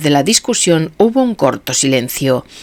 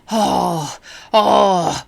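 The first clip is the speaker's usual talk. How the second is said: protesting; 3 semitones higher than usual. A narrator's reading. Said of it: "protestó Witherspoon".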